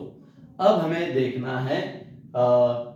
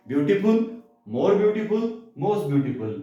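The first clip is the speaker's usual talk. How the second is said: "ब्यूटीफुल" and "more beautiful" rise high, "most beautiful" falls to close; reciting list; 4 semitones higher, slower than usual. Shown as a demonstration. Teacher drilling students, rising then falling degree list. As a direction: chant the three degrees like a drill. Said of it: "उस पे word add होगा most".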